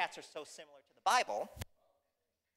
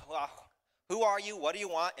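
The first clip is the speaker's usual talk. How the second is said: gruff ogre; 4 semitones higher than usual. Acted. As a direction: challenge the visitor at the door. Ogre opens door to a stranger.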